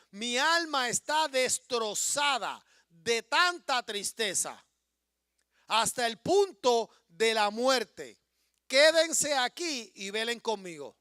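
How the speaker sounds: slow, loud anguished voice of Jesus; anguished plea. Acted. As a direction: pour out sorrow unto death.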